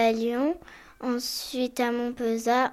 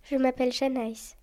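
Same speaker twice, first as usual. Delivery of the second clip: breathy whispered name. Shown as a demonstration. Child introducing herself, whispering her name. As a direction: whisper your name like a secret.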